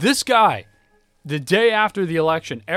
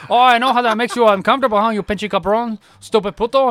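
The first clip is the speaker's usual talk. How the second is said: high, loud, fast taunting; mocking insults; 8 semitones higher, 8 dB louder, faster than usual. Old man mocks the other, fast loud sneering. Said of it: "He goes".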